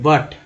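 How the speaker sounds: बट with an open a vowel, not u; U sounded as आ. Shown as a demonstration. Teacher showing how U is read in but, बट with an open a. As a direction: say बट with the U opened to a. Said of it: "तो आ बोलते हैं".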